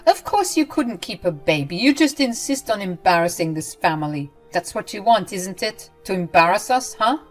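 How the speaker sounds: loud, high, contemptuous rant; mother-in-law berating her, loud and cruel; cruel tirade. Acted. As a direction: tear into her. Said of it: "started going off again".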